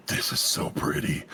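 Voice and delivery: hushed, unvoiced gushing; awed whisper. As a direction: whisper it like you're admiring treasure. Gushing quote of own reaction.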